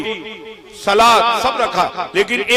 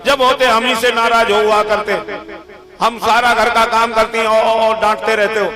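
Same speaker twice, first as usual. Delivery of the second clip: mild mock yelling. Wife answering husband in a fake quarrel, mild mock yell. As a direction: complain back in a pretend yell. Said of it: "पत्नी चिल्ला रही".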